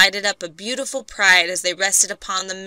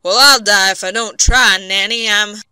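louder resolve, a hint of despair; lightly voiced determined husband; 7 dB louder than usual. A narrator's reading. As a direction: insist gently but firmly. Joe answering wife.

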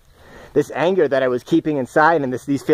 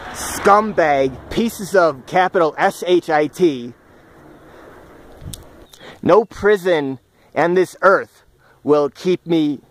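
slow, bitter seething rant; angry rant. Retold or imitated. Vlogger reciting the angry post he wanted to write, seething. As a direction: spit out the hatred slowly. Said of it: "That, that was what I wanted to say".

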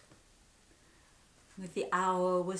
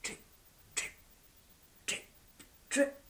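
dripping tap; 4 semitones higher, 8 dB quieter, faster than usual. A narrator's reading. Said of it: "went the leaky kitchen tap".

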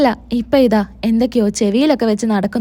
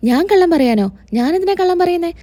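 higher-pitched protest of innocence; indignant denial; 6 semitones higher than usual. Acted. Accused of lying by family, indignant denial. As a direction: push back at the accusation, voice lifting.

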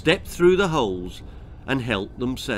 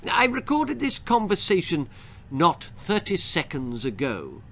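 goblin voice; 5 semitones higher than usual. Acted. Gum Goblin voiced in story.

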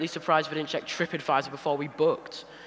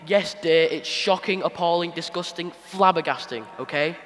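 louder, fed-up rattling off of every word; exasperated outburst; 2 semitones higher, 5 dB louder than usual. Acted. Husband loses patience with his nagging wife, exasperated. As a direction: snap back to end the nagging.

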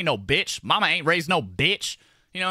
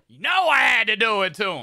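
boastful shout; 4 semitones higher, 3 dB louder than usual. Acted. Streamer bragging to chat about his hair, proud shout.

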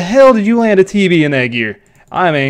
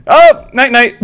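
laughing; 6 dB louder than usual. Real, not acted. Laughing as player dies.

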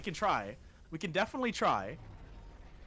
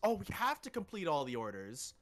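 slow, dropping realisation; resigned; 3 dB quieter than usual. Real, not acted. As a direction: let it sink in slowly. Dawning resignation after the question.

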